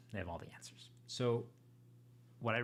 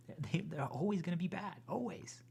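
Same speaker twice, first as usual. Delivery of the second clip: higher and louder, insisting hard; emphatic insistence; 8 semitones higher, 5 dB louder than usual. Real, not acted. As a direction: push it out, almost shouting.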